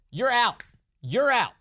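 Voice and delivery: loud, high dismissal; hammed-up you're out; mock eviction yell. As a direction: bark them out the door.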